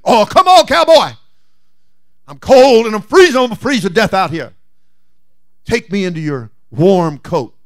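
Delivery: high, loud whining snake; begging snake. Acted. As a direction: whine up high like a freezing snake. Snake begs, freezing.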